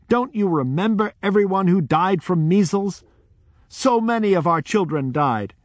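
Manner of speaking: high, loud, urgent appeal to the crowd; loud pleading. Retold or imitated. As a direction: raise your voice and plead with them. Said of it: "in a loud voice said".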